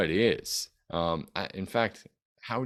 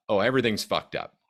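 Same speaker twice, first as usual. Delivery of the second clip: mock panic, a little louder opening; panicky inflection; 2 semitones higher, 3 dB louder than usual. Shown as a demonstration. Coach showing a client the wrong inflection, mildly panicked. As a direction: throw it out like all is lost. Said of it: "turn that inflection out to be like".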